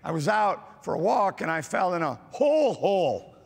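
doubled hole, said with grave weight; stress on the doubled hole. Shown as a demonstration. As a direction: repeat hole, hole with weight on the second. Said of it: "But if they would say".

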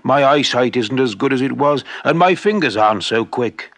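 lightly voiced old man, a touch sad; a hint of a tired craftsman; old shoemaker. Shoemaker telling his wife his eyes fail, mild sadness.

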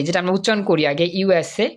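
usual speaking voice

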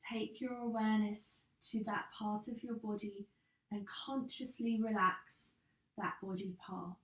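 calm yoga nidra guidance with long pauses; guided meditation. Acted. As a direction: guide them gently into rest, unhurried, phrase by phrase. Leads yoga nidra relaxation.

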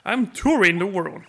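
put-on British accent. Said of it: "a British accent".

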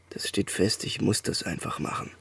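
barely voiced, almost a whisper; whispered decision to his partner; hushed confession. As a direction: breathe the words out, resigned. Confessing he will leave.

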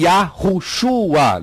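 "Yahushua" drawn out very slowly as ya, hu, shua; rejected pronunciation. Shown as a demonstration. Teacher dismissing a name form, "Yahushua" in slow syllables. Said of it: "Não existe isso no nome do Salvador".

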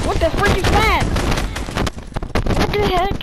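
high, loud baffled outburst; alarmed disbelief. Real, not acted. Gamer reacts to something unknown, alarmed disbelief. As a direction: call out in startled confusion.

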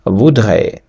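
"voudrait" with ou as "oo" and final t silent; "voudrait" ending on an open e sound; French reading. Shown as a demonstration. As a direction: model "voudrait" carefully in French. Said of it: "Слово читається".

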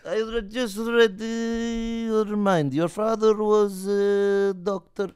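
slow, drawn-out high mystic voice; hammed-up fortune teller voice; mock mind reader. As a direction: play the barber as a hammy psychic.

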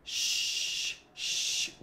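long hushing "sh", held out; SH sound. Shown as a demonstration. Teacher isolates the sound for a student, long "sh". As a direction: draw "sh" out as pure air. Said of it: "o som de sh".

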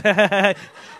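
imitating her loud laugh; a brief hammed-up cackle; mock cackle of the wife. Comic mimicking his wife's laugh in the crowd, cackling. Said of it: "she's got that laugh".

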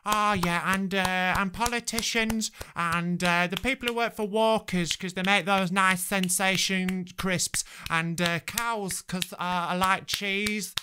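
lightly voiced enthusiastic Brit, slowed and breathy-free sing-song; mock gushing clapper. Comedian mocking Brits who clap for everything, mild mock gushing voice. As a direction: send up the over-eager applauder in a mild put-on voice. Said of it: "We don't need to be out there like".

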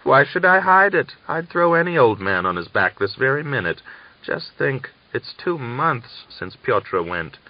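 high, loud, shameless brag; bold confession. A narrator's reading. Daria boldly admits her longing to Natalia. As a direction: say it without shame. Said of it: "Daria laughed".

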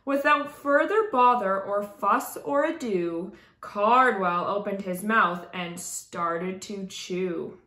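lilting rhyming storybook reading; story narration. A narrator's reading. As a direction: read it aloud to children with expressive rhythm. Reads a rhyming picture book aloud.

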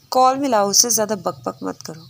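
ordinary delivery

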